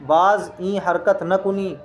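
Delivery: slow, deliberate dictation of बाज ई हरकत न कुनी; teacher slowly reads बाज ई हरकत न कुनी aloud for learners; slow reading. Shown as a demonstration. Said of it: "दोबारा ये हरकत मत करना".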